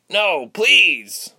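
high, loud pleading cry; desperate protest. A narrator's reading. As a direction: cry out to stop the guard. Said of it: "Tyke protested".

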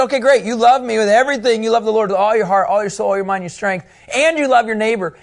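enthusiastic approval. Acted. Jesus voiced praising the lawyer.

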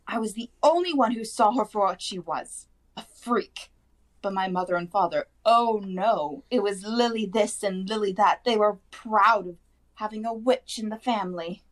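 high-pitched, indignant aunt ranting; shrieking rant. A narrator's reading. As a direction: pour out years of resentment in a high voice. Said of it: "then went ranting on".

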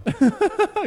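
squeaky high burst of laughter. Real, not acted. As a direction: giggle way up high.

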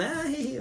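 a high little giggle; tossed-off imitated laugh; mock giggle. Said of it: "hasta se rió como".

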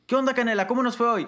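put-on high, loud baby-talk to a pet; high sing-song owner voice greeting the dog. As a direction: coo at the dog like an owner coming home.

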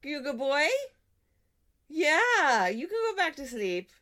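high, slow, cooing dog voice. Real, not acted. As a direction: coo at the dog slowly. Talking to the dog.

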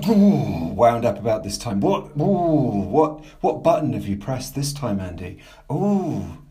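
loud, swooping mock outrage on each ooh; mock-agitated ooh-ing. Caller teasing host about which button was pressed, mock-agitated. Mock fuss over what wound him up.

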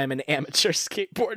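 cracking up on the last word; failing to keep a straight face. Real, not acted. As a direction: try to say it seriously, break into giggles. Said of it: "couldn't say it with a straight face".

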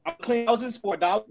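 breaking up on a bad call; choppy, lagging connection; clipped phone line. Real, not acted. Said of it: "Rich, you're breaking up pretty bad".

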